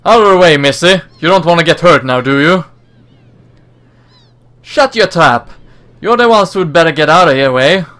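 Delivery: rough attempt at a Cockney accent; poorly done Cockney. Game characters squaring off over Missy, poor Cockney accent. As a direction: put on a shaky-at-best Cockney. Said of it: "I went from a poorly Cockney accent".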